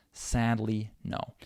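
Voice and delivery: SADLY with the LY clearly audible, then NO; middle syllable unreduced. Shown as a demonstration. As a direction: say SADLY evenly, barely reducing LY, then stressed NO. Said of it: "You can still hear it clearly".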